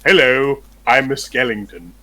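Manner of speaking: a hint of a goofy skeleton. Shown as a demonstration. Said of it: "skeletons sound like this".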